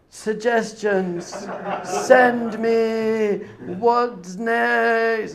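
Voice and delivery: hammed-up frantic viewer, rising to a slow drawn-out plea; mock panic. Binge-watcher panicking over series ending.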